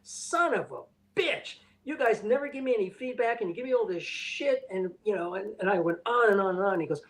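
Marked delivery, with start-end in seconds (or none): 0.0-4.6 reliving the riot act, a touch slowed and raised; retold angry rant. To the production manager, angrily calling him out. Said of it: "I read him the riot act".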